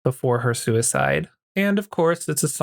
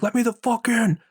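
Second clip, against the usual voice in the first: mock scream; 9 semitones higher than usual. Fake dad yelling to be let in, high mock yell. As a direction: imitate the fake dad pounding at the door. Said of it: "start banging on the door and screaming".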